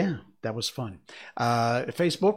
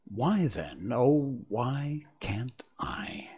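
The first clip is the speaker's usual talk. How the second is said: slow, reflective spoken lyrics; poem recitation; slower than usual. Acted. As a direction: recite it line by line with long pauses, fading to a hush at the end. Recites song lyrics to close.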